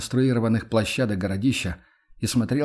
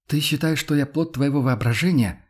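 lightly voiced indignant woman, higher; hurt, challenging question in a higher voice; indignant Yana; 4 semitones higher than usual. Yana confronts Max over being imagined, indignant. Яна вспыльчиво спорит с Максимом.

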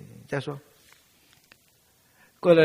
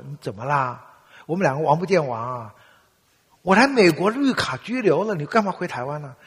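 loud, higher protesting father; exasperated father; 4 semitones higher, 10 dB louder than usual. Retold or imitated. Father protesting that his son returns to Taiwan, loud. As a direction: throw up your hands at the son.

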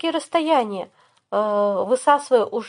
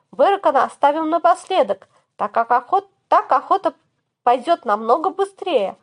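raised, higher commanding shout; rallying battle call; 5 semitones higher than usual. Acted. Hero rallies the party in battle.

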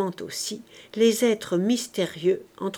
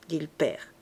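plain reading voice

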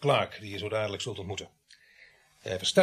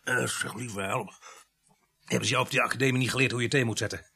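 grumpy scolding; 3 dB louder than usual. Acted. Sergeant scolds about weak tea.

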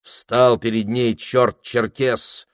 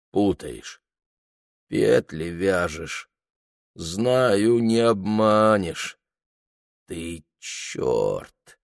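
listless; much slower than usual. A narrator's reading. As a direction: let the words sag with no fight left. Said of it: "вяло сказал он".

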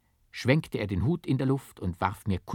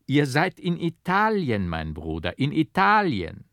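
comfortable smile; 6 semitones higher, 5 dB louder than usual. A narrator's reading. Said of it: "lächelte wohlbehaglich".

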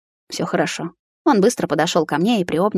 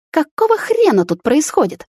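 high, loud angry shriek; furious yell; 9 semitones higher, 3 dB louder than usual. A narrator's reading. Girlfriend yells at the kissing pair, furious shriek. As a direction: scream it at the cheating couple. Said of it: "завопила она".

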